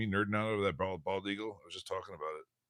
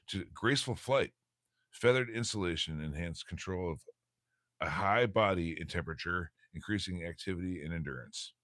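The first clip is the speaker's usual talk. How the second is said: reading aloud. Acted. Reads a bird text aloud.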